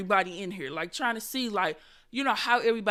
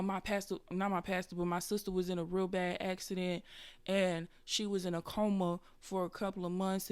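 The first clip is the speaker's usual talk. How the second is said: testifying churchgoer; 4 semitones lower, 6 dB quieter than usual. Retold or imitated. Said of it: "it going something like this. three, two, one, go".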